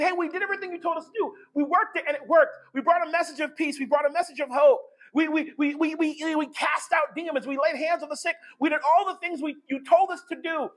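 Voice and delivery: fast, eager report of success; excited disciples. Acted. Disciples bragging to Jesus, eager and fast. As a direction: rattle it off like proud disciples.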